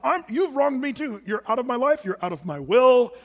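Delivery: put-on bitter old grudge. Voicing bitter old person.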